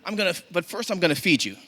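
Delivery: high, loud hammed-up mama telling-off; acted scolding. Neighbour mama orders boy into the house, loud scolding. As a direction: scold a child loudly, pitched high.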